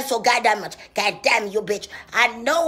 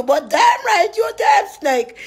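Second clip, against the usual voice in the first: higher, louder shout; 7 semitones higher, 4 dB louder than usual. Acted. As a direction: holler the accusation. Shouting at rival.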